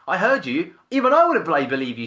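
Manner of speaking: high, loud mock tirade; wife going nuts. Italian wife overhearing his sales call, loudly scolding. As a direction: imitate a fired-up wife tearing into him. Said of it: "just going nuts at me".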